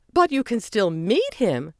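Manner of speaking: high, loud and slow, brightly; bright reply. A narrator's reading. Margie consoling the disappointed kids, brightly. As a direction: cheer the kids up. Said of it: "Margie replied brightly".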